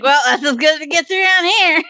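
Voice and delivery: mock resignation. Joking quote of small-town resignation.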